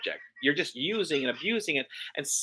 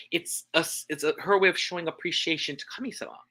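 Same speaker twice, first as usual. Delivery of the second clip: whispered. Acted. Soft aside.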